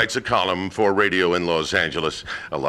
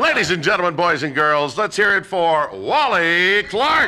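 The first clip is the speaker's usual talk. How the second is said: announcer intro; 5 semitones higher than usual. Real, not acted. Host introduces guest to audience.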